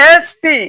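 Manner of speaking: এসপি in two deliberate, high-pitched beats; sounding out. Shown as a demonstration. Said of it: "কি উচ্চারণ হচ্ছে ভাইয়া?".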